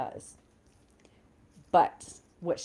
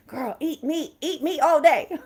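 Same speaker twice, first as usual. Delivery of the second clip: laughing; 9 semitones higher, 6 dB louder than usual. Real, not acted. Laughing cheer to eat meat.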